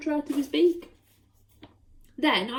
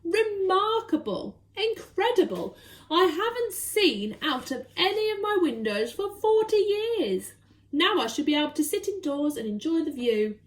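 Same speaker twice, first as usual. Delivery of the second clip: put-on delighted old Duke; 5 semitones higher than usual. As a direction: savour each word of amazement. Duke marvels at clean windows.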